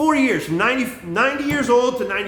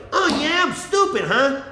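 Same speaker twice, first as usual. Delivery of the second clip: higher-pitched, mock-offended dad retort; indignant dad comeback; 6 semitones higher, slower than usual. Dad answering his son's insult, mock indignation. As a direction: imitate a stung dad firing back.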